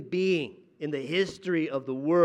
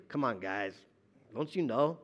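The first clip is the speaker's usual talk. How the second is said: exasperated. Retold or imitated. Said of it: "we're thinking".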